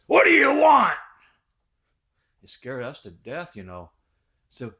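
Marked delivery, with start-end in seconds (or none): 0.1-0.9 put-on gruff old man barking loud and high through the door; grumpy old man. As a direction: startle the kids with a loud, high old man's yell. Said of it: "he says".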